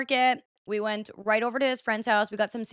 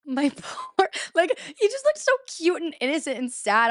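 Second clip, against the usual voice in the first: high-pitched sympathetic gush; pitying coo; 7 semitones higher than usual. Real, not acted. Girlfriend pities her soaked boyfriend, cooing. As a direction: coo over him, pitch lifted.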